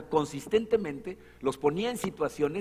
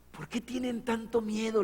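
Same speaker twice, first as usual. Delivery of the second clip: raised question; 7 semitones higher than usual. Acted. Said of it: "les dice".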